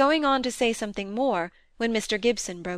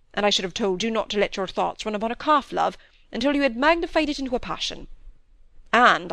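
lightly voiced stern older doctor rebuking; a hint of a stern father scolding; stern father figure. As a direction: lecture the young man with rising scorn.

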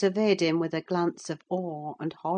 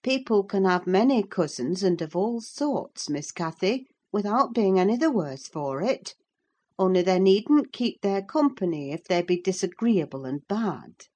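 slightly higher consoling voice; reasoning housekeeper; 4 semitones higher than usual. Acted. Housekeeper consoles the upset girl, reasoning. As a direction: soothe the child with reasons.

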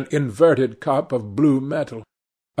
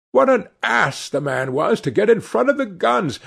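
high, exasperated outburst; annoyed outburst; 8 semitones higher than usual. A narrator's reading. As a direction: blame him in high-pitched annoyance. Shooter blames the man he hit.

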